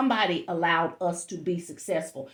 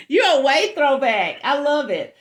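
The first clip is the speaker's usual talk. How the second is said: laughing; 5 semitones higher, 6 dB louder than usual. Real, not acted. Teasing a parent about Atari.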